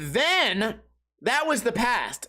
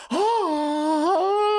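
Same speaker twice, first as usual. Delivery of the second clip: surprised oh; 9 semitones higher, 3 dB louder than usual. Retold or imitated. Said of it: "And I said".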